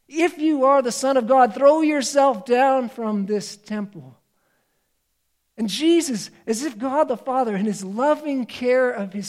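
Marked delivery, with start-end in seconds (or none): 0.1-4.2 hint of a mocking tempter; taunting tempter. Devil tempting Jesus.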